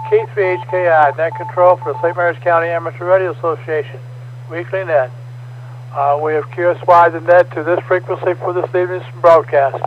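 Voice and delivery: formal scripted net opening; radio net announcer. Acted. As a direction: read the net preamble steadily. Reads net control preamble.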